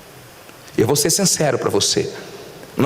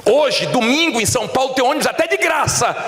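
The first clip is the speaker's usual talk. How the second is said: high, emphatic pulpit voice; preach; 9 semitones higher than usual. Real, not acted. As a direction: preach it out with raised pitch. (pregação exaltada, em tom agudo)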